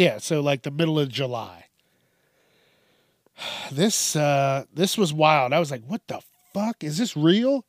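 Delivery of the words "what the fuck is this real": mock disbelief. Reacting to the article.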